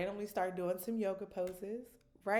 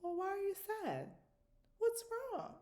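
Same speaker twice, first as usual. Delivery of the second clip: gentle high concern. Retold or imitated. Mom asking her sad daughter what's wrong, high and gentle. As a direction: ask it tenderly. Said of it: "And I'm like".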